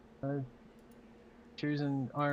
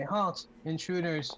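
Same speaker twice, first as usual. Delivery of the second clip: robot voice; 2 semitones higher than usual. Acted. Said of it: "you hear robotic voices say".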